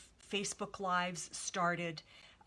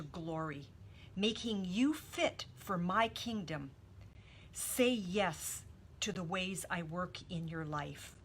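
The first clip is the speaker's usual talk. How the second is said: devotional reading. Acted. Reads a devotional aloud.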